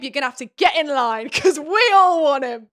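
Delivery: loud, rising mock outrage; mock indignation. Reader tells off the rival ex, mock indignation. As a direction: build to a loud, high protest.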